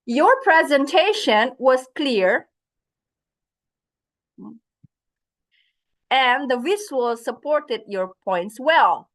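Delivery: slow, kind praise; slow warm praise; praising. Shown as a demonstration. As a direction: compliment the presenter gently. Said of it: "Next one".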